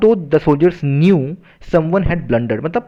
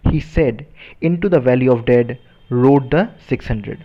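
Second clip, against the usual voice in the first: slow, measured verse reading; poem recitation; much slower than usual. Acted. Teacher reading Tennyson's poem to students, slow measured recitation. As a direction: recite each phrase deliberately, with pauses.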